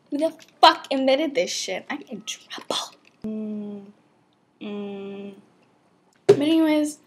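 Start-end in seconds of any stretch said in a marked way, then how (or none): 0.1-1.9 loud, exasperated cursing; exasperated outburst. Real, not acted. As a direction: blurt it out louder. Outburst about the iced coffee.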